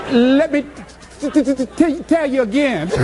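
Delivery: lightly stuttered offer; imitating stutter. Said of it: "she stutters".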